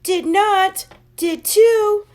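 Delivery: high, loud squabbling shouts; bickering. A narrator's reading. Two kids quarrelling in class, loud high shouts. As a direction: hurl it back and forth.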